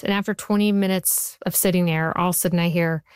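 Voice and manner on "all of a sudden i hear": usual speaking voice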